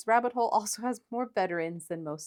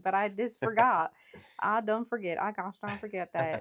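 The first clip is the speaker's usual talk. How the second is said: southern accent. Shown as a demonstration. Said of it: "accent before. ... much more southern".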